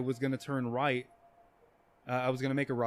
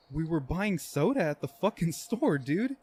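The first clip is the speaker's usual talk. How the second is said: higher-pitched, defensive retelling; retold protest; 4 semitones higher than usual. Retelling his protest to nervous cop.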